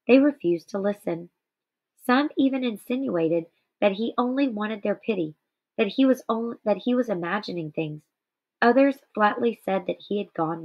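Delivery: measured read-aloud narration; story reading. Acted. Teacher reading Night aloud to students, measured narration. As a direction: read the memoir passage to the class with steady care.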